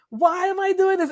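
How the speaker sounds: high, strained inner cry of frustration; exasperated self-reproach. Retold or imitated. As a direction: voice the ache of asking why. Self-reproach quote, voice jumps high.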